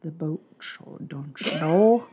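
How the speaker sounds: slow, lightly put-on Minnesota accent; a hint of upper Minnesota, drawn out. Hamming a Minnesota accent for her cohost. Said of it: "I can do a lot of accents".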